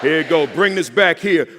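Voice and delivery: loud, urging; loud cue. Real, not acted. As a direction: call out over the crowd. Cueing crowd mid-chant.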